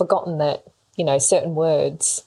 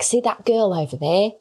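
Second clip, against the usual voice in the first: poorly imitated Australian accent; bad Australian accent. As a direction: attempt an Australian accent, badly. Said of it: "they're like".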